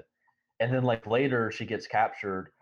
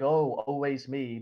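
slow, higher, whiny moaning sigh; mock self-pity; 5 semitones higher, slower than usual. Mocking Nina moaning about her fate, slow whiny sigh.

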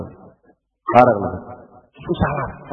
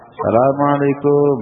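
slow, friendly salam; friendly greeting. Shown as a demonstration. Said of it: "dengan intonasi yang bersahabat".

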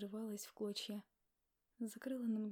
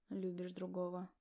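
low, heavy male voice, pained; low and resigned, finishing her sentence; husband Ignat; 4 semitones lower than usual. A narrator's reading. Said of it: "договорил за меня Игнат".

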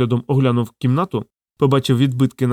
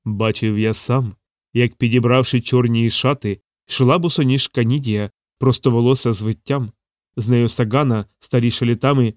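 menacing sepulchral mumble. Acted. Talking mirror recites an eerie tale in a mild sepulchral drone. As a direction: mumble it like a ghost from the tomb. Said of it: "забубоніло погрозливим замогильним голосом".

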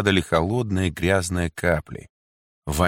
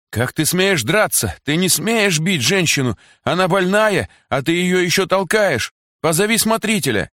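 high, loud indignant cries; shouting women; 11 semitones higher, 3 dB louder than usual. A narrator's reading. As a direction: yell at the soldier in outrage. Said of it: "кричали арестантки". (возмущённый крик)

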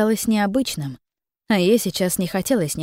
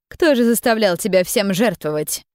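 irritated. Acted. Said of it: "раздражённо бросила женщина".

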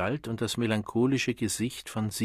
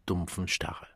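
usual speaking voice

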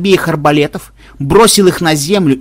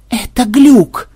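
high, excited exclamation; manic insistence; 9 semitones higher, 4 dB louder, much slower than usual. A narrator's reading. Programmer tells his team it's a glitch, manic insistence. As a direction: insist on it in a raised, frenzied voice.

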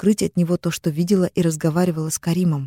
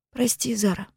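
put-on higher girlish confession, tearful; teen sister confesses the call, higher and tearful; young sister Amina; 5 semitones higher, 6 dB quieter than usual. A narrator's reading. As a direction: confess guiltily as the little sister. Sister apologizes.

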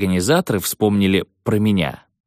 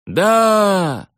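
crowd yelling; 10 semitones higher than usual. Retold or imitated. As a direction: shout yes like a crowd. Crowd answers.

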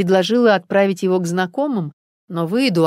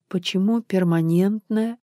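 pitiful; 3 semitones higher, slower than usual. Acted. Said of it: "жалким голосом спросила".

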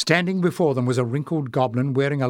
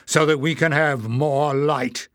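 slow, louder solemn elder goblin; 3 semitones higher, 4 dB louder, slower than usual. Acted. Warren addressing the goblins, slow and solemn. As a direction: announce it with slow authority. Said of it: "he said".

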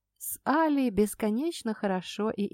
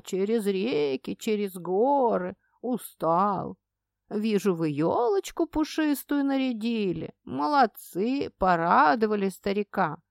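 put-on sing-song old man voice; 2 semitones lower than usual. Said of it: "добавил нараспев старческим голосом".

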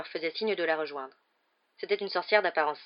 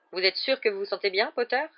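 a touch of sharpness in the question; dry, curt; 3 semitones higher, 5 dB louder than usual. Acted. McGonagall asking Harry, a bit curtly. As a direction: ask it briskly, no warmth. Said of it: "demanda sèchement".

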